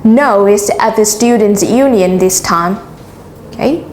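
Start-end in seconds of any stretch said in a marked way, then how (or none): 0.0-2.8 Students' Union stressed to correct the place; emphasize "Students' Union" as the key information; teacher's model correction, Students' Union made prominent; stress on key words. Shown as a demonstration. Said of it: "Notice how I stress on the highlighted".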